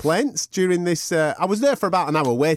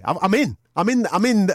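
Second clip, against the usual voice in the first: higher and louder with each repeat; getting more frantic each time; rising panic; 6 semitones higher, 3 dB louder than usual. Real, not acted. Panicking about being stuck in lie.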